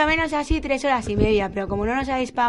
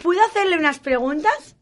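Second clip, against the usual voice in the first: field reporter; 6 semitones higher, 6 dB louder than usual. Acted. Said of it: "aquí Paquita Dial".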